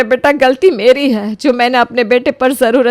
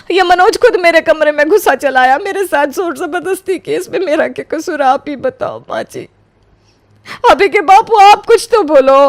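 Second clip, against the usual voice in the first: pleading; 4 semitones higher than usual. Acted. बहू ससुराल में गिड़गिड़ाती.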